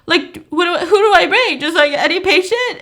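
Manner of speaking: high voice breaking into laughter; can't keep a straight face while quoting; laughing through the quote. Real, not acted. Podcaster quoting David's question, laughing at the absurdity.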